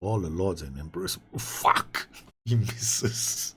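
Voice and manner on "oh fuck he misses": breathy groan of disbelief; whispered dismay. Real, not acted. Gamer watching his penalty taker miss, stunned whisper.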